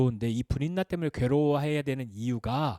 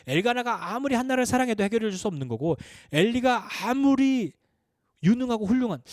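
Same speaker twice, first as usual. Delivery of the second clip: higher and louder, pressing every word home; impassioned preaching; 7 semitones higher, 4 dB louder than usual. Acted. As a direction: build to a fervent climax. Sermon climax, rising insistence. (높고 힘찬 열정적 설교)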